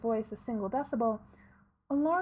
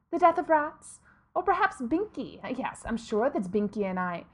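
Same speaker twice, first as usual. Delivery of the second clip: sharp, louder irritated rant; 4 dB louder than usual. Acted. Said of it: "a good rant".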